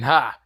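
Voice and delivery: single retold "Ha!"; short, spoken mock laugh. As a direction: bark out one imitated laugh. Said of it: "Yami is laughing at almost all".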